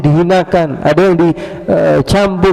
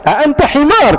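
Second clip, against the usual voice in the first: higher, scornful question in Arabic; indignant Arabic; 11 semitones higher than usual. Retold or imitated. Sleeper insulting the caliph in Arabic, scornful.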